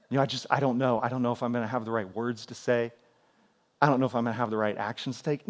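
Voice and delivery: soft, low, hesitant confession; mock anxious plea. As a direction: ask earnestly for prayer, hushed and unsure, in mock seriousness.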